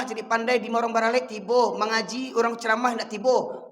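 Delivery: measured, held-back rebuke; mock softened intonation. Shown as a demonstration. Preacher shows congregation his softened tone, mock-gentle. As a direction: scold without raising it to a shout. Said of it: "saya perlu nak bahasanya, intonasinya".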